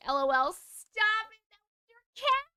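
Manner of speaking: high, loud giggly disbelief; laughing. Real, not acted. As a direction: laugh through the words, squealing. Cracking up at own story.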